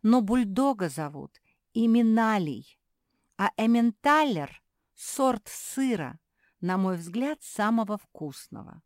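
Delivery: savouring. Acted. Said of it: "облизнулась Зефирка".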